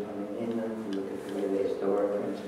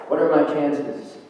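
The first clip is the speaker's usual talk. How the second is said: anguished cry; 6 semitones higher, 8 dB louder than usual. Acted. Poem, voiced anguished question.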